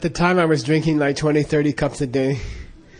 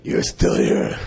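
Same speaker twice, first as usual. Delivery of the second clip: breathy whispered repeat of the line; whispered Lama; slower than usual. Retold or imitated. Repeating the Lama's line to the listener, whispered. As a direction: breathe it out like a hushed old teacher. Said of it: "His voice was like that".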